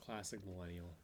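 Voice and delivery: whisper. Real, not acted. Whispered jab.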